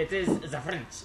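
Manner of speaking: cartoonish French accent; Ratatouille French accent. Shown as a demonstration. Trying out accents for friends, mock French accent. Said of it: "that is the Ratatouille French".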